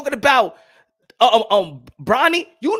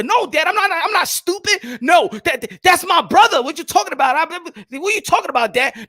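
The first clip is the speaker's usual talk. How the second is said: arguing son; 6 semitones higher, 3 dB louder than usual. Acted. Acted son arguing back.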